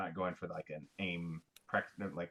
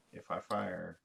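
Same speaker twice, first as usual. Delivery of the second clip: softer, slower aside; low-key first mention; 3 semitones lower, 5 dB quieter, slower than usual. Real, not acted. Player quietly tells the table the plan, low-key. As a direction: say it softly, almost to yourself. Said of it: "I didn't hear it".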